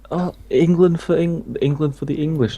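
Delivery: a touch of the office lads' chant; mocking the lads. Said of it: "the way they were saying it".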